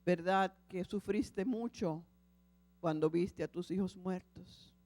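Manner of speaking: lightly voiced Lord speaking tenderly. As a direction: speak as a patient, loving God. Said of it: "la voz del Señor".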